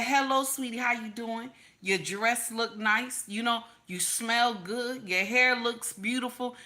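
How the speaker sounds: mildly sweet, unhurried compliments; complimenting. Acted. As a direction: pay gentle compliments, easing off in volume. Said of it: "He just giving you compliments".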